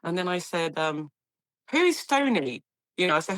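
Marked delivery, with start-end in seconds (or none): 1.7-2.6 higher, keen asking; eager newcomer asking; eager question. Retold or imitated. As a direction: ask eagerly after her mentor.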